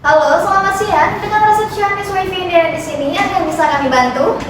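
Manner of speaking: cheerful high call-center hello; customer service voice. Acted. Operator answers the call.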